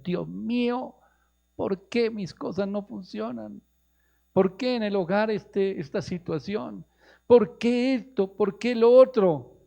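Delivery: high, loud pleading, drawn out; acted lament rising to a shout; anguished complaint to God. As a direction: cry out each why slowly, in mock despair. Acted anguished prayer of questioning people.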